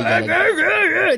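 high, slow theatrical voice; start of a rapper voice. Retold or imitated. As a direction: stretch it like a diva. About to imitate a rapper.

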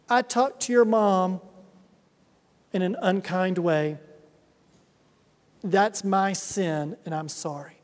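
a father quietly owning his sin; sincere apology. Retold or imitated. Dad apologizing to his children, soft and sincere. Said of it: "I've looked at them, I said".

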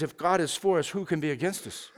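quiet quoting of Romans; quoted scripture, hushed. Retold or imitated. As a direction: softly read verse, fading away. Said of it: "He says".

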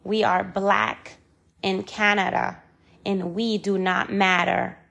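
firm, spaced-out repeat; emphatic restatement. Real, not acted. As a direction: restate it deliberately so it sinks in. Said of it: "I repeat".

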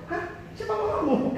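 high, laughing "who's your mom?"; laughing surprise, pitch shooting up; startled disbelief. Retold or imitated. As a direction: react in amused shock. Shocked reaction retold.

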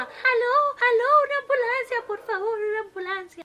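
high, loud, rushed pleas; a wife begging for an ambulance; panicked phone call. A narrator's reading.

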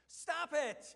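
loud, high "Stop it!" shouted; sharp rebuke. Acted. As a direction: cut them off with a shout. Commentator's Jesus rebuking.

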